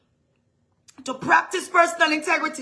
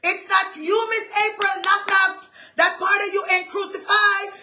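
mildly raised inner-voice scolding; firm, slightly higher mock shout; imitated inner shout; 4 semitones higher than usual. Inner man correcting Miss April, mock shouting. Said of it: "I could hear my inner man shouting it".

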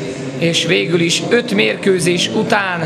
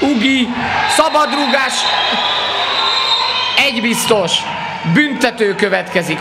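excited sports commentary; 5 semitones higher than usual. Real, not acted. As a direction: shout the free kick call. Free kick called live.

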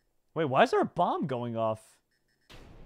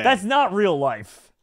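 slow, louder stunned disbelief; shocked laughter; 5 semitones higher, 7 dB louder, slower than usual. Real, not acted. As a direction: marvel at something impossible. Shocked at impossible escape.

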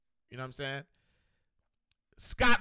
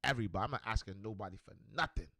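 mock fed-up rant, fast; frustrated outburst; 8 semitones lower, faster than usual. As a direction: rattle it off, done asking anyone. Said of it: "just got frustrated one day".

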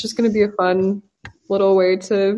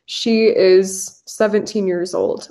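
teacher model sentence; slower than usual. Shown as a demonstration. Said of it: "usually you just say".

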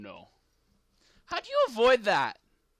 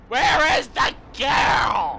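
slow menacing shout; 5 semitones higher, 6 dB louder, slower than usual. Pretend. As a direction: shout it slowly, drawn out. Game character hunting for girl.

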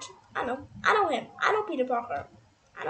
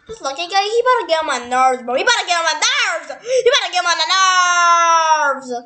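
exasperated ranting; 3 dB louder, faster than usual. Real, not acted. Gamer complaining he gets on their nerves, exasperated ranting. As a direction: gripe that builds into a yell. Mock ranting, escalating yells at the game.

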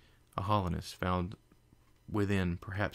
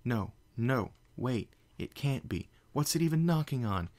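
panicked yell; 5 semitones higher than usual. Acted. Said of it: "Twilight yelled".

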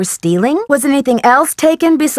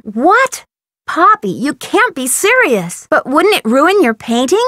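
incredulous; 2 semitones higher than usual. Acted. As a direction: balk at a friend's wild idea. Reacts in disbelief to Poppy's idea.

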